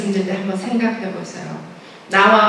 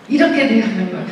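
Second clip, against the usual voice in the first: ordinary talk, nothing marked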